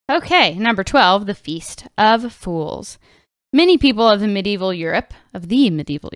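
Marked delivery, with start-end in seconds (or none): 1.3-3.0 dramatic title read. Acted. Announcing item title.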